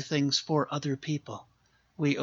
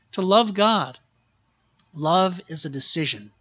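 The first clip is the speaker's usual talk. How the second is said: higher, louder preaching; emphatic proclamation; 4 semitones higher, 5 dB louder than usual. Real, not acted. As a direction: punch the command home. Climactic repeat of command.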